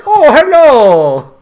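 high, slow, laughing hello; hammed-up flirty hello; mock coy greeting. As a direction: coo it out with a giggle.

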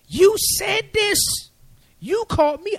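Moses protesting to God, high and loud; pleading protest. Retold or imitated.

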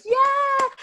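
loud high cheer of the crowd; a loud high yell of celebration. Retold or imitated. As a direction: whoop it like an excited crowd. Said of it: "Everyone's standing there like".

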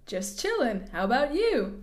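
casual mock-American reply; put-on American accent. Answering the number neighbour, lightly put-on American accent. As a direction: lightly play an American texter. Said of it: "apologise there for the accents".

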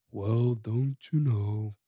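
low, slow mopey drawl; Eeyore impression. Shown as a demonstration. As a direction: drag it out low and glum. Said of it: "That's how he talked".

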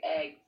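"Eggs" with short eh vowel; other people's eggs. Retold or imitated. Guest imitating critics, "Eggs" with short eh. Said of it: "but people are like".

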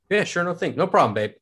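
lightly mocking his own keen yes; mock eager agreement. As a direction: play the eager boyfriend, a touch hammed-up. Agreeing to watch her cats.

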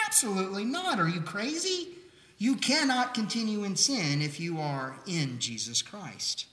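Paul scoffs at the very idea; emphatic outburst. Retold or imitated. Paul answers the objector with a high, incredulous outburst. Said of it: "He says".

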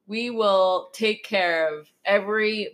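Biden impression. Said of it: "that sounded more like, George Bush".

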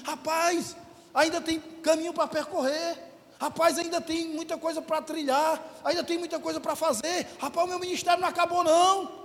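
heartened. Retold or imitated. Pastor telling himself his ministry goes on, heartened. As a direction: lift the voice, as if finding new hope. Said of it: "comecei a me animar".

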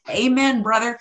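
Southern Amen brother; Southern accent. Real, not acted. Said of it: "did you hear that Southern accent come out".

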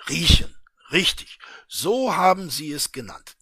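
a hint of a gloating official; smug official.

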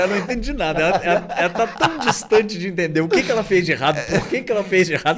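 amused rant through laughter; laughing. Real, not acted. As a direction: giggle while ranting. Laugh heard. (falando rindo)

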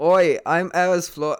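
slow, stretched bad Aussie attempt; awful Australian accent. Improviser retrying the Australian teenager, slow bad Aussie accent. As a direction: drag out a failing Australian accent. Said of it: "really awful Australian accent".

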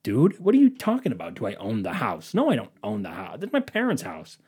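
mildly exasperated, pitch jumping about; acting out getting mad at a clueless caller; retold growing anger. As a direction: protest in mock disbelief. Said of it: "I'm getting mad now".

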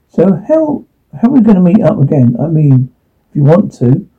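hesitant, tentative invitation; nervous asking. Acted. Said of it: "I asked nervously".

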